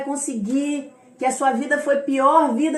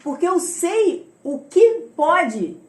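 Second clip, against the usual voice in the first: emphatic, raised retort; insistent, higher, hitting key words hard; prophet's firm refusal; 3 semitones higher, 4 dB louder, slower than usual. Retold or imitated. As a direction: voice a prophet firmly refusing pity. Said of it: "Ele falou".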